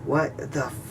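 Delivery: sudden high gasping disbelief, pulled back to near hush; a startled cut-off curse, caught short; retelling the moment he saw the glass, alarmed; panicked disbelief. Retold or imitated. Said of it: "I'm, I'm freaking out".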